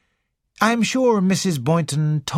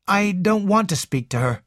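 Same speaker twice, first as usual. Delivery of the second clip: Raymond voice; 6 semitones higher than usual. A narrator's reading.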